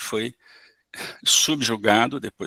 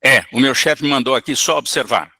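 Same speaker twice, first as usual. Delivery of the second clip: gruff spirit; 5 dB louder than usual. Acted. Spirit voiced, louder.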